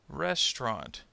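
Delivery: "Restaurant." said as RES-tront; dropped middle syllable. Shown as a demonstration. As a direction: demonstrate "Restaurant." in two syllables. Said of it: "middle syllable will disappear".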